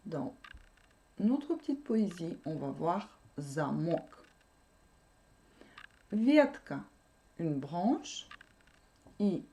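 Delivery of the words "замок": "замок" accented on its final "мок"; "замок", stressed at the end; stress on second syllable. Shown as a demonstration. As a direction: lean on the last syllable of "замок". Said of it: "l'accent tombe sur la deuxième syllabe".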